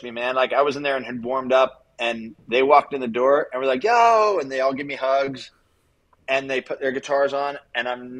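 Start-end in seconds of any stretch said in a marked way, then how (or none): 3.8-4.4 a high, loud, cheery yo; excited greeting. Retold or imitated. Retold bandmates walking in, calling out an excited yo. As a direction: bandmates bursting in happy to see him.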